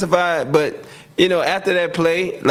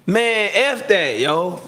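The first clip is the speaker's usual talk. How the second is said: retold yell; 7 semitones higher, much slower than usual. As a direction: yell it the way he yelled it on the sideline. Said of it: "And I was yelling".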